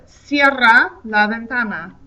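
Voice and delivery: slow, careful Spanish on "cierra la ventana"; teacher modelling a Spanish command; slow Spanish demo. Shown as a demonstration. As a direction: model the command slowly for students. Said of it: "I have close the window".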